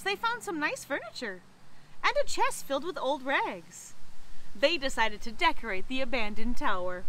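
put-on measured read-aloud for children; story narration. A narrator's reading. Librarian reading a not so spooky story to children, storytelling voice. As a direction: tell it like a picture book. Reads picture book aloud.

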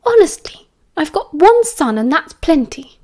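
amused, high exasperation; light, amused scolding; laughing. A narrator's reading. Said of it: "Lily laughed".

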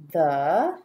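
each word alone with long pauses between. Shown as a demonstration. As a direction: read it out one word at a time while writing. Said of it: "Let's check our work".

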